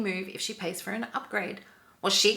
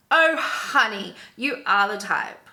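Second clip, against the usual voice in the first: drawn-out, louder condescending opener; mock condescension; 5 dB louder, slower than usual. Rude passenger answering back to her seatmate, condescending. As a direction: imitate a patronizing put-down, leaning on the first words.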